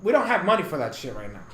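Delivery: brisk, matter-of-fact; fast and blunt about the budget; quick blunt point. Real, not acted. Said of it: "that's what I'm saying".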